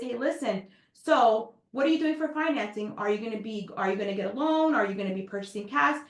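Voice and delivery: friendly. Shown as a demonstration. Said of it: "See how nicer that sounds".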